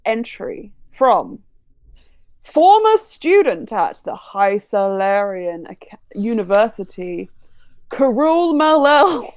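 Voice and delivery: slow, drawn-out host announcement; announcer voice. Acted. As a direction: announce them like a pageant host. Announcer introducing contestants.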